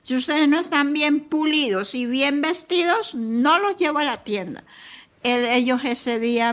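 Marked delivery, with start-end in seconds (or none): 0.0-4.6 lightly voiced big brother, a bit higher and playful; a touch of the teasing older brother promising a treat; mother imitating her son teasing his little siblings, mildly playful; cheerful big brother. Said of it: "le decía".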